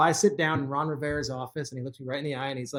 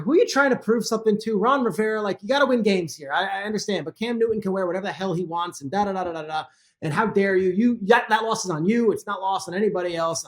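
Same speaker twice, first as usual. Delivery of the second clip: raised, higher mock tirade at the coach; retold angry rant; 4 semitones higher than usual. Radio host replaying his rant at the coach, heated and raised. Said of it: "I'm very demonstrative".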